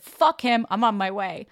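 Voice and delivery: defiant. Retold or imitated. Retold angry call to mom.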